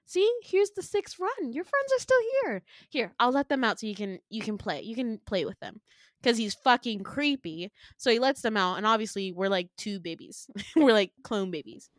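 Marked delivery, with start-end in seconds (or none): 0.1-5.8 higher, upbeat presenting voice; eager villain. Retold or imitated. Villain presenting clone friends to Winter, eager. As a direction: show them off proudly, pitched up.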